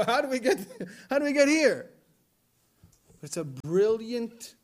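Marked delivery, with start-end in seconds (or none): 0.1-1.9 amazed question. Real, not acted. Amazed at prayer's twist.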